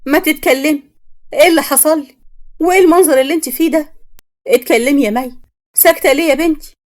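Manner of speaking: high, loud frantic begging; desperate pleading. Acted. Mother to silent daughter Mai, high loud desperate pleading.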